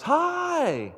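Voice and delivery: high, loud, drawn-out hello; imitating a thrilled phone greeting; gushing phone greeting. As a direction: greet a caller with overdone delight. Acted cheery phone greeting.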